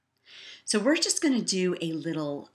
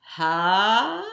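ha's building louder and higher into a burst of laughter; balloon popping laughter; 6 semitones higher, 11 dB louder, much slower than usual. Shown as a demonstration. Teacher leads balloon popping laughter, building to loud laughing. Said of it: "balloon popping laughter".

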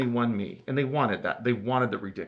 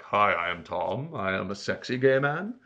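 put-on sexy; 3 semitones lower than usual.

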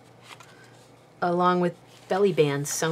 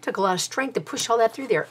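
panting a little after effort; winded from pushing hard; out of breath; 3 semitones higher, faster than usual. Real, not acted. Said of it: "I'm almost out of breath".

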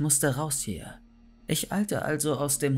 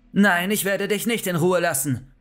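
raised, angry refusal; heated, high-pitched outburst; furious yell; 5 semitones higher, 4 dB louder than usual. A narrator's reading. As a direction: refuse angrily, voice pushed up. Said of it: "brüllte ich".

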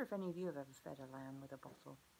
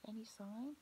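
soft unvoiced whisper; 3 semitones higher, 8 dB quieter than usual. Real, not acted. Teacher whispering to children while hunting for Lamb, hushed. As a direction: whisper as if hiding. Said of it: "whispering to children during search".

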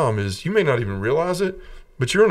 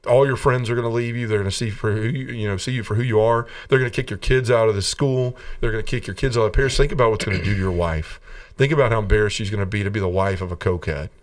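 devil's voice. Retold or imitated. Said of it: "the devil comes back again".

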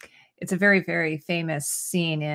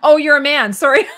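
laughing while reading; 7 semitones higher, 13 dB louder than usual. Real, not acted. Reading a viewer's embarrassed comment.

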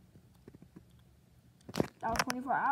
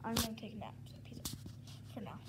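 whispering; 6 dB quieter, faster than usual. Shown as a demonstration. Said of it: "plain version before".

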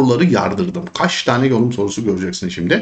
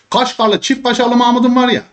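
playful joke; 9 semitones higher, 3 dB louder than usual. Real, not acted. Joking pun on name.

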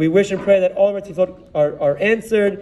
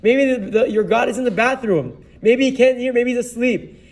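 mild retold taunt, slightly raised pitch; mock taunting; 3 semitones higher than usual. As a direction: tease them as the prophet mocking his rivals. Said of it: "he literally starts mocking them".

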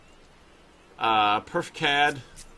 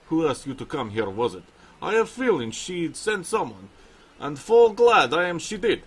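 put-on Russian accent; 3 dB louder than usual. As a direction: voice the bear trainer with a Russian accent. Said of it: "I'm gonna give him a Russian accent".

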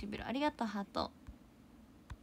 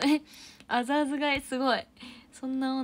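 louder, higher delighted exclaim; excited surprise; 4 semitones higher, 9 dB louder than usual. Real, not acted. Streamer delighted by a viewer's new word, excited. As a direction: burst out in delight.

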